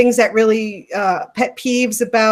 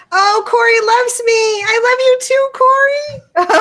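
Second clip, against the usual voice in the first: much higher, gushing over a friend; excited squeal; 13 semitones higher, 5 dB louder than usual. Real, not acted. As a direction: near tears with joy, voice way up. Friend in chat sends love.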